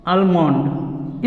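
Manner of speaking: "almond" slowly with a sounded l, al-mond; mispronunciation demo. Shown as a demonstration. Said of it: "इस तरह से बोलते हैं".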